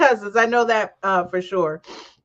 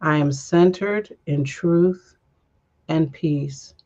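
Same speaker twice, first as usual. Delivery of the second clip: slow affirmation; slower than usual. Shown as a demonstration. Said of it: "last breath affirmation".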